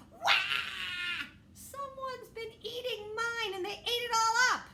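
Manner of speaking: high, loud mock wail; hammed-up cub bawling for children; Baby Bear crying. Baby Bear wails in story.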